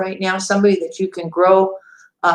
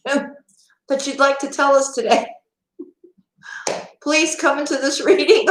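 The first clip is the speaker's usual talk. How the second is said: giggling, pitched up, begging through laughter; laughing plea; 5 semitones higher than usual. Real, not acted. Tarot reader laughingly begs her angels for another story. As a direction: laugh while you beg the angels.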